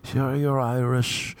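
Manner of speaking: high, knowing mock assurance; mock stereotyping. Voices people assuming Irish fight.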